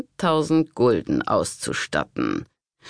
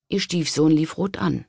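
ordinary delivery

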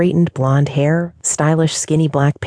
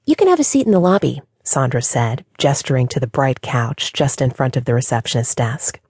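bright bubbly receptionist. Acted. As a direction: smile it out brightly. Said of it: "the bright, bubbly smile once again".

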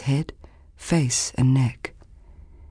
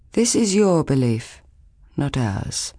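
firm. Acted. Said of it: "Lan answered firmly".

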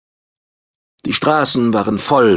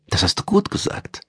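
whispered, much higher praise; half-aloud praise; 12 semitones higher, 4 dB quieter than usual. A narrator's reading. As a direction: praise him under her breath. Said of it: "lobte sie ihn halblaut".

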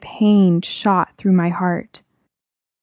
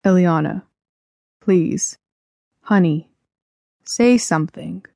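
pleading dad. Acted. Dad begging his shocked child to speak, mildly pleading. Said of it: "Dad pleaded".

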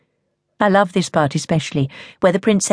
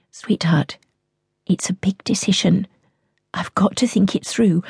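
soothing; 2 semitones higher than usual. Acted. Mother soothes anxious child.

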